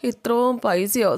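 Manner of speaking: acted open-mouthed astonishment; stunned. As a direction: draw it out, dumbfounded by the sum. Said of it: "അന്തം വിട്ട് പോവാ".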